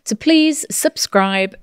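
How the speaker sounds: slow, drawn-out playful plea; mock begging. Host asks listeners to subscribe, mock begging. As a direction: lightly beg the listeners, stretching it out. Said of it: "we beg of you".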